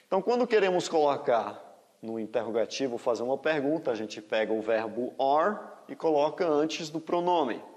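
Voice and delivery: normal talking voice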